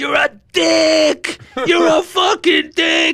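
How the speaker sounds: shrill, booming, high yell, "dick" drawn out. Retelling how a passerby confronted him in the street: retelling a top-of-lungs yell. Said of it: "at the top of his lungs".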